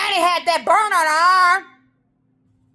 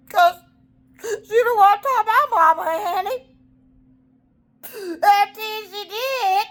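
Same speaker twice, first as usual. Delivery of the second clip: crying; 6 semitones higher than usual. Real, not acted.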